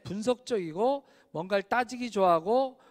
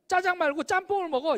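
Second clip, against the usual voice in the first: higher, bouncy suggestion to switch dishes; cheerful friend; 8 semitones higher, 3 dB louder than usual. Retold or imitated. To friends at dinner, a high lively imitated pal. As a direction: pitch it up like the fun friend. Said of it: "이러는 거예요".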